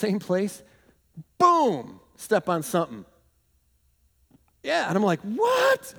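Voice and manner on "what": high-pitched startled "what"; startled yelp. Retold or imitated. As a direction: yelp it in mock alarm. Acting out stepping on a spider.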